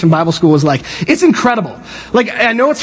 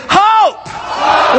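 very high, drawn-out HOPE; long, airy, high-pitched cheer of HOPE; breathy exclamation; 13 semitones higher than usual. Shown as a demonstration. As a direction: send HOPE soaring on a big breath. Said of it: "the little breath thing".

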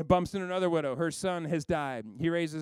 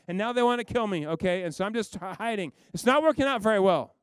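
louder, defensive complaining; a prophet whining his excuses, louder; exasperated Elijah; 2 semitones higher, 4 dB louder than usual. Retold or imitated. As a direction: justify yourself to God with exasperation. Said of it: "And Elijah goes".

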